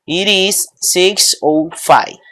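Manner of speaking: slow, spaced-out "It is six oh five"; English example phrase. Shown as a demonstration. Teacher shows students how to say six oh five, slow demonstration. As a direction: say "six oh five" slowly, word by word. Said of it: "Yo digo".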